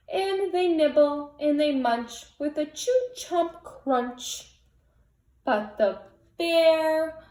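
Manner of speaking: gentle storybook read-aloud; cozy read-aloud voice; picture book reading. A narrator's reading. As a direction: read it like bedtime for little kids.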